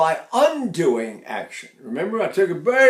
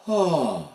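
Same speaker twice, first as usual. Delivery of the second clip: sigh demo. Shown as a demonstration. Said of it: "I'm sighing the whole time".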